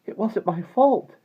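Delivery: high, loud, drawn-out self-defence; spirited girl protesting loudly. A narrator's reading. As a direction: stand up for yourself indignantly. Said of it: "she said, with some spirit".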